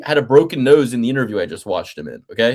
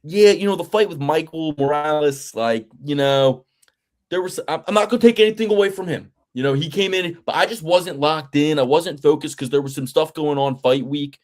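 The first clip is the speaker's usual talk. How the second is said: mock Sean Brady. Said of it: "break myself of the Delco accent".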